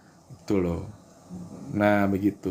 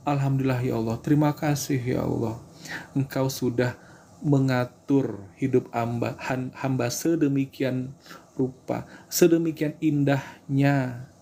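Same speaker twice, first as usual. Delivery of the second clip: thankful prayer demo. Shown as a demonstration. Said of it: "gitu doanya. Pakai rasa syukur".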